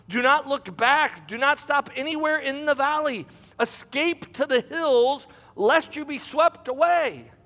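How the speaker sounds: emphatic Bible narration; measured, dramatic scripture reading. Acted. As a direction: read the dialogue out to a congregation. Resumes reading scripture aloud.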